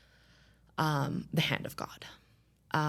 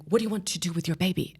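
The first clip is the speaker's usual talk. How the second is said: urgent question; 3 semitones higher, 5 dB louder, faster than usual. Retold or imitated. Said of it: "he's like".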